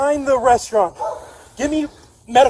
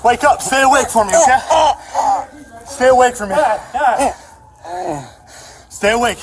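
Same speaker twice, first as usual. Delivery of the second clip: urgent calling; 4 dB louder than usual. Real, not acted. Officer urging dying suspect awake.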